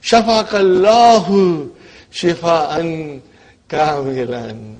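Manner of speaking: Shafaqallahu shifaan kamilan said slowly and clearly; slow Arabic recitation. Shown as a demonstration. Teacher modelling an Arabic blessing for students, slow and clear. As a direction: spell out each Arabic word slowly. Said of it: "teacher slowly models Arabic phrase".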